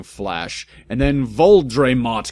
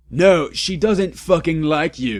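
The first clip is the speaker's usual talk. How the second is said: higher, louder mock yell; 6 semitones higher, 4 dB louder than usual. A narrator's reading. Draco yelling at Vampire, mock yell. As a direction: yell at your rival. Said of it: "yelled Draco".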